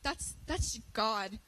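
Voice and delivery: emotional. Real, not acted. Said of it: "I'm about to get emotional".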